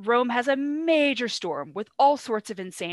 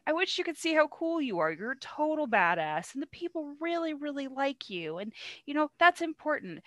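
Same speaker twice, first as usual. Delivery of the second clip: higher, lightly hammed-up coaxing; butter up a friend in a raised, softened voice; mock flattery; 6 semitones higher than usual. Cassius flatters Brutus, acted.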